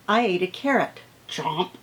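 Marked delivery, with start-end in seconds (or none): 1.3-1.7 chomp sound word. Shown as a demonstration. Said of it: "That totally changes it".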